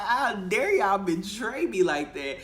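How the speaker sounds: hammed-up outrage, high and loud; play-scold the class, not really mad; mock angry teacher. Teacher mock-scolding kids who told the boy her car color. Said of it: "giving my angry teacher face".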